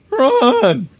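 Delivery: loud high yell; shout. Acted. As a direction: yell at her to flee. Spike yells.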